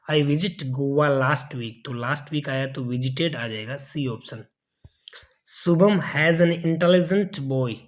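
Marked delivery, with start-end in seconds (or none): 5.5-7.7 reading the wrong sentence. Shown as a demonstration. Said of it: "तो यहाँ पे has ना आकर क्या आ जाएगा?".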